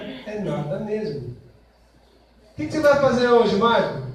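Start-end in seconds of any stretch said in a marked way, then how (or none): 1.2-4.1 lightly voiced wife. Wife asking husband.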